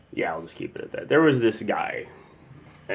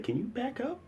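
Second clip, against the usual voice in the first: retold retort; 9 dB quieter than usual. Acting own retort to heckler.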